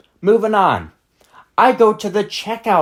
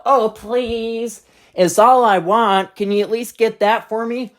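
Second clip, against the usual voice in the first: lightly voiced pleading child, slow; whiny begging kid; 4 semitones higher than usual. Kid begging her to buy gum, slow whiny plea. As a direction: drag out the plea like a spoiled kid.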